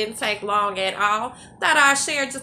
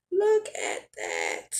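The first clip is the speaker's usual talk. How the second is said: much lower, drawn-out marvel; low and slow; 12 semitones lower, slower than usual. Real, not acted. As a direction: sink the voice and savour it. Marvelling at the finished food.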